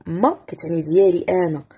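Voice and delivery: ordinary talk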